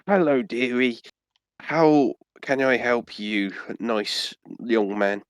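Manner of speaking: put-on slow, sweet little old lady; a lightly voiced kindly granny. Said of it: "imagine I'm doing an old granny voice".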